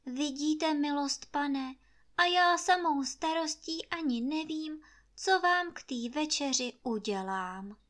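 pitiful servant. Acted. Maid Anče feigning misery to her master. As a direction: put on a long-suffering face in the voice. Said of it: "Zatvářila se jako sedm nešťastných let".

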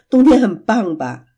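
asking with a laugh. Acted. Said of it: "琪琪笑着问".

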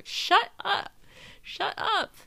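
hammed-up high, loud yell; Phil. Imitating partner silencing a complainer, exaggerated shout. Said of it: "That's what Phil will tell me".

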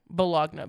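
Bologna said boh-LOG-nuh, loud, with the G sounded; spelling pronunciation. Shown as a demonstration. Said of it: "how to spell baloney".

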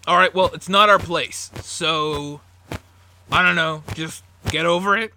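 a hint of a harsh brother brushing it off; brusque dismissal.

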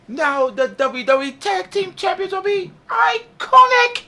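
high, slow, drawn-out Australian announcer; Australian accent. Retold or imitated. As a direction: announce it grandly like an Aussie tag champ. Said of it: "in that Australian voice".

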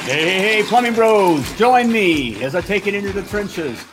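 upbeat announcer read over music; show intro. Acted. Host opening his plumbing show, announcer voice. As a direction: sell the show like a radio host.

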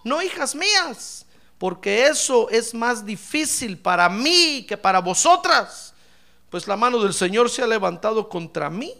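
put-on slow, pleading old mother; Noemí lamenting. Noemí voiced in a sermon. (lamento lento de Noemí)

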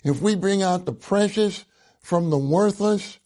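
"precious" leaned on within the verse; emphasis on "precious" again in the full quote; stress on precious. Shown as a demonstration. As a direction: hit the word "precious" hard as you repeat it. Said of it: "I'm emphasizing the word precious".

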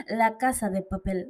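badly faked Spanish accent; attempted Spanish accent. Shown as a demonstration. Podcaster jokily naming a show for Spaniards, bad Spanish accent. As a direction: have a clumsy go at a Spanish accent. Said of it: "I tried to do a Spanish accent".

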